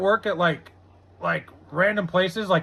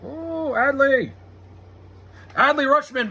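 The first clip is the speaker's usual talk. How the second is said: drawn-out, high cheer for a player; real high-pitched hooray, stretching the name; excited cheer; 8 semitones higher, slower than usual. Real, not acted. Fan cheering the player who tied the game, excited.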